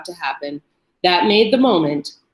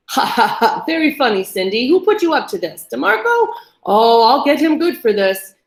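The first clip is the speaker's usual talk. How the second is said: higher, mock laughing disbelief; forced laugh; 3 semitones higher, 4 dB louder than usual. A narrator's reading. Captive pretending it's a prank, forced laughter. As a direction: laugh it off, unsure.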